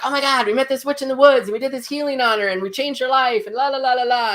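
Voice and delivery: fast, high, rushed gushing; overexcited friend spilling everything; breathless excitement. Retold or imitated. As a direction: tumble the news out in a rush. Breathless report to arriving friend.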